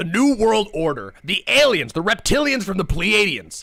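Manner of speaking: put-on furious rant. Showing off voices to the stream: put-on furious conspiracy rant. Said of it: "I can do a bunch of voices".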